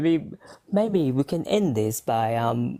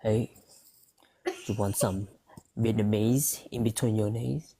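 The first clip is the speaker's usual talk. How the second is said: pickup line; 3 semitones lower, 3 dB quieter than usual. Pretend. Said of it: "should I try this, um, pickup line?".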